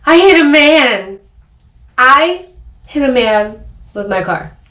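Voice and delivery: high, loud, slow panicked cry; panicked shout. Retold or imitated. Driver in shock after hitting a cyclist, panicked shout. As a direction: blurt it out in shock. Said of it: "I'm like".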